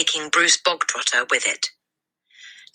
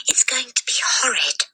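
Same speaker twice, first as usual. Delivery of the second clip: higher breathy whisper; 9 semitones higher than usual. A narrator's reading. Girl whispering back to her friend, hushed whisper. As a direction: whisper the gloomy prediction. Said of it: "Lavender whispered back".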